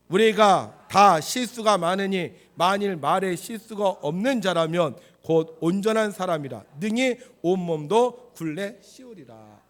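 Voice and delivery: loud, slow, measured scripture reading; scripture recitation. Acted. Preacher leading congregation in reading, slow loud recitation. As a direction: lead the congregation through the verse, word by word.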